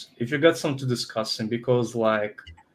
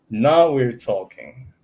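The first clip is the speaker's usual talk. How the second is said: slow, laughing it out; 4 dB louder, much slower than usual. Real, not acted. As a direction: laugh through the catchphrase. Laughs, repeating a catchphrase.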